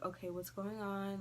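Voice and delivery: soft, unhurried question; calm mom. Retold or imitated. Nurse mom walks into the room, calm and soft. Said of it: "she just came in the room all calmly".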